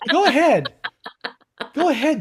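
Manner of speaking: radio host voice. Pretend. Radio call-in parody.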